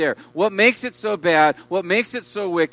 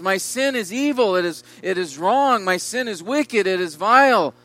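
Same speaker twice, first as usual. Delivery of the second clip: preacher voicing David crying out, mildly raised; mild mock outcry of guilt; 2 semitones higher than usual. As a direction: proclaim each line as a half-hearted cry of confession. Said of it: "He's crying out in these words".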